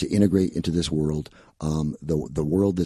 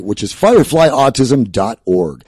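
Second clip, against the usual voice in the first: radio voice; 5 semitones higher, 12 dB louder, slower than usual. Shown as a demonstration. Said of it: "give me your best radio promo".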